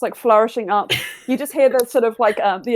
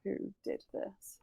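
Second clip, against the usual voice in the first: cold rasping evil emperor; 4 dB louder, slower than usual. Acted. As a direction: threaten them like a tyrant. Villain character speech.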